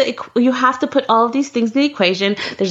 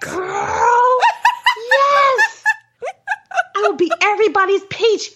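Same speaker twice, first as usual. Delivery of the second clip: high, laughing squeal; gleeful laughing; 10 semitones higher than usual. Real, not acted. Host agreeing with co-host, gleefully laughing. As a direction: whoop it through the laughter.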